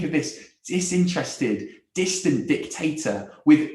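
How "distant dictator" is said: "dictator" leaning hard on DIC; stress on first syllable. Shown as a demonstration. Preacher describing how we picture God, stressing DIC in "dictator". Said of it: "with an emphasis on the first syllable".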